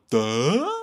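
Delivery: loud mock gawp of a Duh; dumb duh. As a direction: blurt it out dopey and loud. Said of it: "I'm like".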